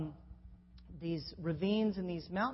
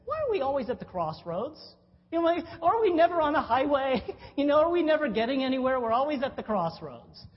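louder, faster, higher with a laugh; exasperated mock rant; 7 semitones higher, 9 dB louder, faster than usual. Preacher mocking politicians' slogans, loud and exasperated. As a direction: rant at the cliché in mock frustration.

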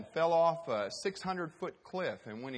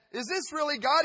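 anxious; 11 semitones higher, 8 dB louder than usual. Acted. Hiker anxious disbelief.

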